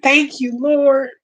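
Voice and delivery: tearful thanks to God; emotional. Real, not acted. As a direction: pause and steady yourself, moved. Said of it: "I'm not trying to get emotional".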